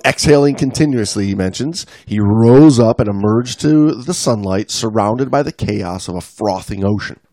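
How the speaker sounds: dramatic read-aloud, lingering on key phrases; animated storyteller reading an article; story narration. A narrator's reading. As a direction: read it like an adventure tale.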